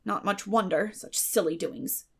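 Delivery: dry Marilla. Acted. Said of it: "was Marilla's response".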